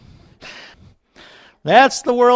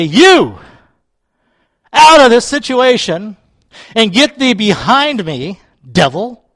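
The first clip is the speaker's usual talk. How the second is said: loud, firm order to the devil; commanding rebuke; 2 semitones higher, 5 dB louder than usual. Retold or imitated. Preacher rebuking the devil, loud commanding voice. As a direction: cast him out with force. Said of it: "I go to him and I say".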